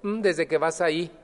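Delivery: quoting a startled relative, mock-suspicious; surprised family member. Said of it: "Eso lo sorprendió". (sorprendido y burlón, mucho más agudo y rápido)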